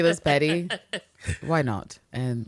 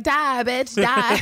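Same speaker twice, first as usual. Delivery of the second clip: high, loud shouted taunt; Brenda from Scary Movie; 8 semitones higher, 4 dB louder, much slower than usual. Retold or imitated. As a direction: yell it like a movie villain. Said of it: "that clip from Brenda in Scary Movie".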